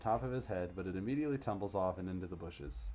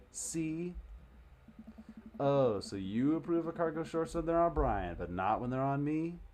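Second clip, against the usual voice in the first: bratty daughter; 7 semitones higher, 4 dB louder than usual. Acted. Daughter arguing with dad.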